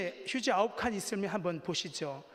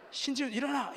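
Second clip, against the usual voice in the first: retold sharp order, higher pitched; wake-up shout; 8 semitones higher, 4 dB louder than usual. Police waking the sleeping deserter, raised commanding call.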